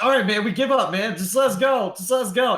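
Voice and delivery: high, whiny begging voice; pleading thug. Acted. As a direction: beg like a cornered thug.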